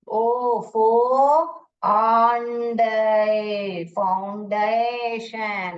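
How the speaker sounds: फाउंडेशन dragged out in exaggerated broken syllables; wrong pronunciation. Shown as a demonstration. Teacher exaggerating the misdivided word, wrong pronunciation. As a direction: stretch ओ, फो long, then drawl फाउंडेशन chunk by chunk. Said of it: "तो गलत आएगा आपका pronunciation".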